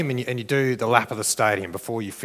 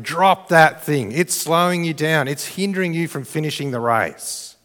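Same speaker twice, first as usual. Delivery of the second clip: raised crowd yell, easing off; mild yelling; 3 semitones higher than usual. Acted. Crowd warning a burdened runner on the track, mild acted yelling. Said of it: "The crowd is gonna be yelling".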